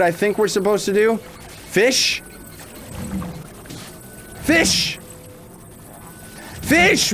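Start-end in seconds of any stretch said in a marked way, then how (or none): 1.2-2.2 whispered question. Real, not acted. Realizes puzzle. 4.4-7.1 calling out. Real, not acted. Calling for fish.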